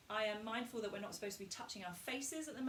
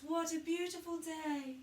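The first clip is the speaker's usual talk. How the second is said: higher, slow and weightless; speaking from the heart; 6 semitones higher than usual. Shown as a demonstration. Coach showing the heart voice, light slow high speech. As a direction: float it out with little weight. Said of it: "Try speaking from that place".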